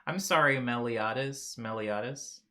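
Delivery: apologetic; corrected name. Shown as a demonstration. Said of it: "I was saying it wrong".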